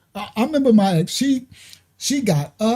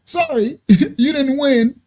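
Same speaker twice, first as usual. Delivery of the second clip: mock salesman; 5 semitones higher, slower than usual. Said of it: "they be like".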